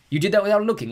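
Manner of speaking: loud, bright cheery dad. A narrator's reading. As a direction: pitch it as a fun idea.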